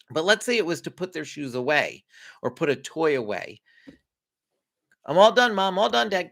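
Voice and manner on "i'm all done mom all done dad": put-on higher-pitched kid's check-in; kid reporting back. Kid checking in after the job, higher announcing voice. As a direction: pipe up like a child who has finished.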